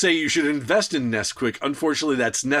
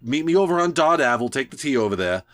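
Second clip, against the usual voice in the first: put-on fast Boston accent, casual; 2 semitones higher than usual. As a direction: rattle it off like a Boston local. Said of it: "I hear Jonah's voice ... grew up in Boston".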